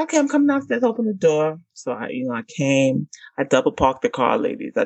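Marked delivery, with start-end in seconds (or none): 0.0-1.6 put-on boyfriend voice. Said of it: "He said".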